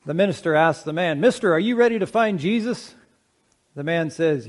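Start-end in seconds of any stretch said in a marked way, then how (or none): 1.2-3.0 lightly voiced preacher, pitched higher; calling preacher. Minister asks a man at the river, calling preacher. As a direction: put the question to him like a riverside preacher.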